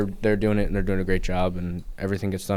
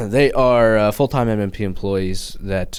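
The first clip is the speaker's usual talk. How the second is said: louder, speaking right up; 3 dB louder than usual. Shown as a demonstration. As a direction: say it again, out loud this time. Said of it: "Want me to talk louder?".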